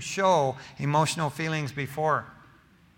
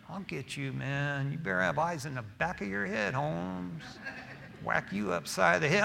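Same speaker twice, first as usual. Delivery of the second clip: mock threat; 6 dB quieter than usual. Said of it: "you want to threaten them".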